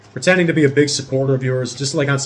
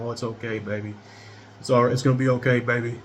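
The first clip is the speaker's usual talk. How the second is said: sweet soothing. Retold or imitated. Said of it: "she's all sweet".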